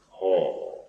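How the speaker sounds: "Haw" softly, throat open. Shown as a demonstration. Teacher showing how it opens the throat, open "Haw". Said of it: "how that opens the throat".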